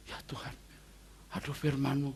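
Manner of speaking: soft, understated re-enacted weeping prayer; tearful awe. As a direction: murmur it quietly, as if overcome. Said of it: "Sampai saya tuh nangis sesengguh-sengguhkan".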